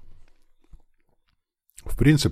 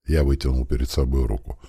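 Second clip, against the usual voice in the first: ordinary delivery, nothing marked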